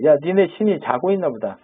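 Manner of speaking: teasing singsong, pitch lifting as it goes; acted-out jeer at rivals; mock taunting. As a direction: needle them with mild mockery. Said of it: "그러니까 놀리죠".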